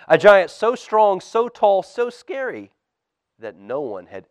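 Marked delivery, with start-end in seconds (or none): 0.1-2.7 loud, high, slow dramatic telling; booming storyteller emphasis; dramatic build. A narrator's reading. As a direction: make the giant sound huge.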